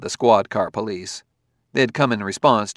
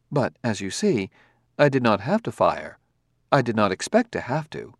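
calm robot voice. Acted. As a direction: speak as a courteous, precise android. Robot character held voice.

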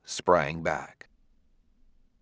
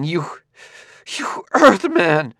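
higher, slow, straining into a rasp; tortured rasp; 10 semitones higher, 5 dB louder than usual. Acted. Gladia cursing the Earthman, tortured rasp. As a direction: spit out the last word, voice tearing. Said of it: "Her contralto had become a tortured rasp".

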